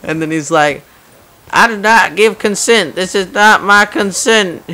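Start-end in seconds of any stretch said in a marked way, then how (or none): 1.5-4.6 raised, louder imitation of a protesting driver; mock indignant protest. Driver protesting to the cop who broke his window, mock indignant. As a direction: play up an outraged objection, pitched high.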